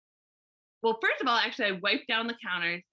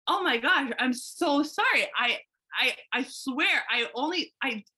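stumbling apology. Retold or imitated. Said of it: "I'm, like, stumbling with my words".

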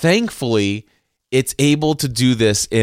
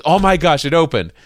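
higher, louder burst of surprise; amazed relief; 7 semitones higher, 4 dB louder than usual. Retold or imitated. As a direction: imitate an astonished, excited daughter. Acts out daughter's relieved surprise.

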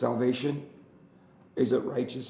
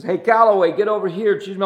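mock captain calling; 8 semitones higher, 12 dB louder than usual. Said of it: "that captain looked at me and says".

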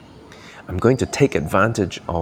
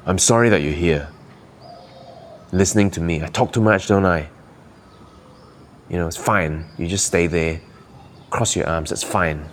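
a touch of contempt in a sorry; resentful demo. Shown as a demonstration. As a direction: say it like you can't stand him. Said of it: "but I hate this person".

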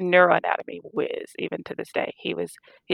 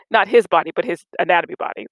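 louder "his", then "anatomy" stressed; correcting stress; 6 dB louder, faster than usual. Real, not acted. Laughing correction to the host, stress on "anatomy". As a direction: lean on "anatomy" to set it straight. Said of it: "Let me clarify".

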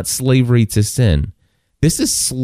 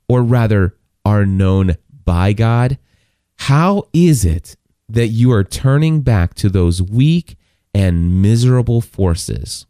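slow scripture reading. Acted. Preacher rereading Galatians to the congregation, slowly. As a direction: read it slowly, with weight. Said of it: "listen to this".

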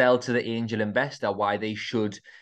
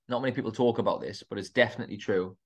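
talking between sips of coffee; words around a coffee sip; while drinking coffee; faster than usual. Real, not acted. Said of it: "Sorry, I'm drinking my coffee".

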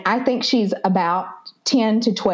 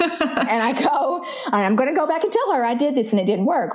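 laughing; 5 semitones higher than usual. Real, not acted. Laughing about her own therapy homework.

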